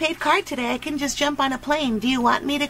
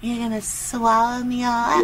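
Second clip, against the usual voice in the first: lower-pitched dirty-talk tease; 4 semitones lower than usual. Pretend. Talking dirty to a phone partner, low come-on. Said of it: "Why are you talking dirty?".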